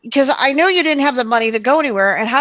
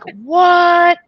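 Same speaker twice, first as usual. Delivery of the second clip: high, louder What? in mock astonishment; retold shock; 7 semitones higher, 4 dB louder than usual. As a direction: throw out a stunned little What?. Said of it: "and I'm like".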